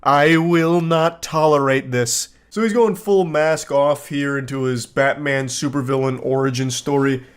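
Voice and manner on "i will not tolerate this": slow, deliberate ultimatum; mock fury. Obsessed fan ending an angry message, mock fury. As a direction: lay down the law word by word, slowly.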